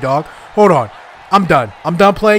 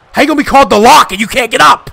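fast, higher-pitched outcry; exasperated berating; 5 semitones higher, faster than usual. Real, not acted. Player berating his fallen wrestler, exasperated. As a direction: rattle it out in raised disbelief.

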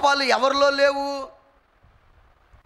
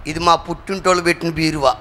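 mock bickering wife; 7 semitones lower, 6 dB louder, faster than usual. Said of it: "భార్యాభర్తల మధ్యలో variety గొడవలు".

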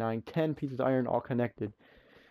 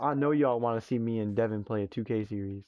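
unvoiced teasing whisper; confiding a plan to the audience in a whisper. Real, not acted. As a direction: whisper it like a secret to viewers. Whispered teaser to viewers.

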